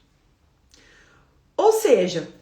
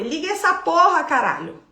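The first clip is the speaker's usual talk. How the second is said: rough swearing command, higher and louder; mock angry outburst; 5 semitones higher, 3 dB louder than usual. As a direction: blurt it like the rage that came up. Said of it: "do jeito que veio".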